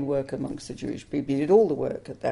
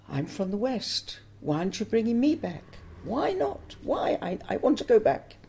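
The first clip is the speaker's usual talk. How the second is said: tearful pleading; 5 semitones higher than usual. Retold or imitated. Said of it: "And I would cry".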